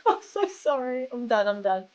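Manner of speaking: giggling through the words; laughing apology. Real, not acted. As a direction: laugh while you apologise.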